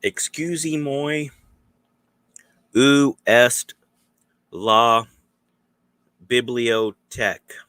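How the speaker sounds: loud, high, mangled American French; bad French tourist. Tourist asking a local in shaky French, loud and high. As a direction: butcher the French like a clueless tourist. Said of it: "and you're like".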